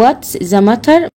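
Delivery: What's the matter said slowly, each word clear; teacher to pupil, spelling out What's the matter slowly; slow, careful model phrase. Shown as a demonstration. A teacher slowly models What's the matter for her pupil.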